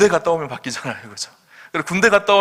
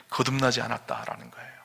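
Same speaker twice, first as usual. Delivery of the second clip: whisper; 3 semitones lower, 9 dB quieter than usual. Real, not acted. Preacher drops to a whisper.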